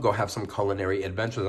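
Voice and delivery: talking through a mouthful of food; chewing while rushing the words; mouth full. Real, not acted. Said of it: "I'm sorry, I'm chewing".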